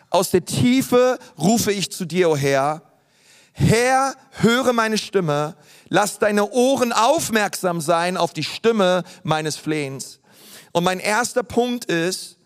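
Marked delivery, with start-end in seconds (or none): 0.1-10.2 slow, earnest reading of a psalm; solemn psalm reading. Acted. Preacher reading David's psalm aloud to the church, slow and solemn. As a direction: read the psalm slowly, as a cry. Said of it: "Und er sagt in Vers eins".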